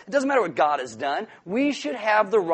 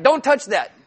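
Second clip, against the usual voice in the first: sharp, louder warning, higher; stern parent warning; 7 semitones higher, 9 dB louder than usual. Retold or imitated. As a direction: stop the toddler's hand with your voice. Parent scolding a toddler.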